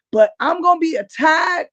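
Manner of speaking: half-shouting how worn out she is; exasperated outburst. Real, not acted. Wife venting about lifting her man.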